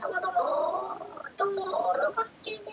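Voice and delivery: bright little robot intro. Pretend. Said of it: "みたいな". (高めの明るいロボット声)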